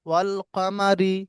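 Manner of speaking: very slow, lips spread on রি; slow recitation. Shown as a demonstration. Teacher reciting the light র example slowly. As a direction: stretch ওয়াল কামারি out slowly. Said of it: "মুখটা ছড়িয়ে যাচ্ছে".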